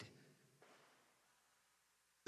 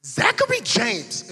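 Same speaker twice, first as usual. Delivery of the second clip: mom calling out; 5 semitones higher, 4 dB louder, slower than usual. Retold or imitated. Mom calling him home.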